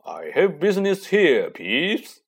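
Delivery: raspy commanding croak. Acted. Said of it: "croaked Harry".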